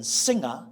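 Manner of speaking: "singer" with NG and no hard G; soft NG. Shown as a demonstration. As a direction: let the NG in "singer" stay one nasal sound. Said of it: "G is an N G sound".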